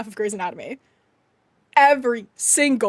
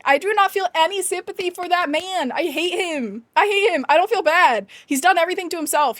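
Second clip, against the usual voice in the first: higher-pitched, indignant venting; indignant rant; 5 semitones higher than usual. Real, not acted. Streamer venting to viewers about Owen Hunt, indignant. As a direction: vent your dislike, pitched up. Ranting about a hated TV character.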